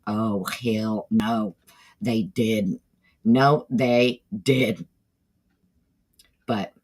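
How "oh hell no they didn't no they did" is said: slow, drawn-out Southern "Oh, hell no"; Southern drawl. Retold or imitated. Telling the chat how she sounds when upset, slow Southern drawl. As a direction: stretch every word out, Southern and fed up. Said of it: "you can hear my Southern drawl".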